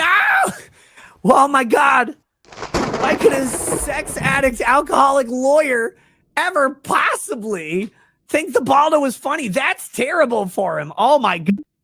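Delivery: squeaky voice. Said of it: "Notice that voice pattern".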